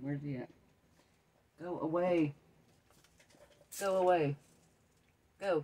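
slow, spooked, uneasy, scared freaking out. Seeing him again while talking to the viewers, freaking out. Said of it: "I'm freaking out".

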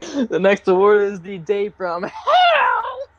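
high, swooping words wobbling through laughter. Announcing the next award while still laughing: laughing while talking. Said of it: "I'm still laughing from Kane".

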